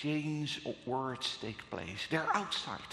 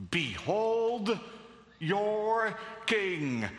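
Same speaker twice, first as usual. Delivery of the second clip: a touch of scorn, louder, lifting Behold; mocking Pilate; 4 semitones higher, 4 dB louder, much slower than usual. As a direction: Pilate sneering at the crowd, mildly mocking. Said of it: "But he says so mockingly".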